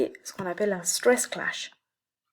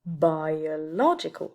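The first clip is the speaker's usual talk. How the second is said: biological slowed, each syllable laid out, secondary stress on bi; stress shown slowly; 4 semitones lower, slower than usual. Shown as a demonstration. Teacher slowly showing students the new stress of biological. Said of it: "le nouvel accent secondaire, ce sera".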